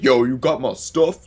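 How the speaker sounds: slow, drawn-out fake dealer voice; mocking undercover agent. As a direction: mimic an agent badly posing as a dealer. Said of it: "You sound like that one hot boy F B I agent".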